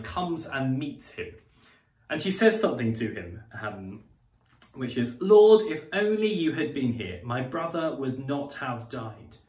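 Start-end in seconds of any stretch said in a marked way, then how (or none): 5.2-9.4 pained plea. Acted. Martha telling Jesus her brother needn't have died, in pain. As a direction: plead through grief, much louder on Lord. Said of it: "she is expressing her deep pain".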